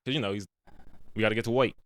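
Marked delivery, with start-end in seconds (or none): 1.2-1.7 "weight" said as "woyk", imitating his accent; "weight" with an oy vowel and no r; Bugs Bunny-like pronunciation. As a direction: mimic him, with "oi" in "weight". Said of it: "he says work a lot".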